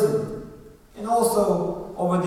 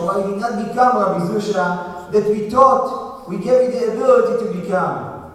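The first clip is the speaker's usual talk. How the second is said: pleading rising outcry; 2 semitones higher, 5 dB louder than usual. Retold or imitated. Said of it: "he says".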